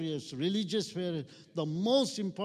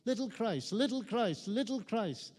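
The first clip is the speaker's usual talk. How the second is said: mocking taunt; 4 semitones higher than usual. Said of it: "they were mocking and say".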